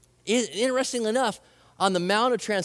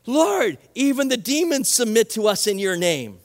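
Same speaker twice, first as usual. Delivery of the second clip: joyful disciples; 4 dB louder than usual. Retold or imitated. Disciples reporting back to Jesus, excited and louder. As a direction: blurt it out thrilled at what happened. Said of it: "the group returned with joy and said".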